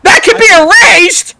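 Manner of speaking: high, slow menacing villain line; dark lord. Acted. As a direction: threaten like a smug overlord. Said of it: "Godzilla is screaming at Kong".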